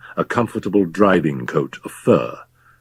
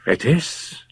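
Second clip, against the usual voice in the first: startled whisper; 5 semitones higher, 3 dB quieter than usual. Acted. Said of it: "in a startled whisper".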